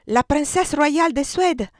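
high, loud, drawn-out shout; crowd shout. A narrator's reading. Someone in the crowd shouts out the princess's name, loud and drawn out. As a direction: call it out slowly across the crowd. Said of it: "qualcuno gridò".

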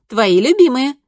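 bright, tender invitation; affectionate. A narrator's reading. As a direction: coax him kindly. Daughter coaxing brother.

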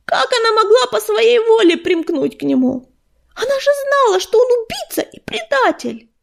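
high, loud, anguished disbelief; upset, high-pitched protest; distressed outcry. A narrator's reading. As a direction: cry out in dismay at a betrayal. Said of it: "в смятении воскликнул он".

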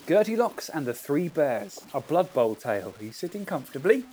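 measured storyteller announcing a tale; storybook narration. Acted. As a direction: settle the listeners in for a story. Begins reading his story intro aloud.

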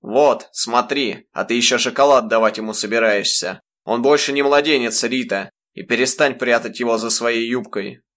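a furious father yelling at his wife. Acted. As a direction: shout at her, pointing at the glass. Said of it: "заорал".

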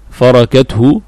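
فركته as farakat-hu; فركته with its middle letter opened to "a"; fatha on the ra. Shown as a demonstration. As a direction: say فركته with an "a" after the r. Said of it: "بالفتح".

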